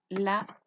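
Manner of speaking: Lápiz broken into LA, long pause, PIS; syllable by syllable. Shown as a demonstration. Teacher separating syllables for pupils, syllable by syllable. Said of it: "Se carga la voz acá".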